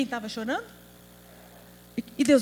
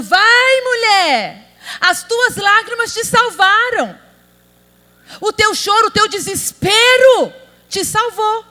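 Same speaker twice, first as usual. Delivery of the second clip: louder, higher voice of Jesus speaking; mock Jesus voice; 8 semitones higher, 7 dB louder than usual. Preacher voicing Jesus telling the woman, loud and high. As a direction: proclaim it like Jesus blessing her.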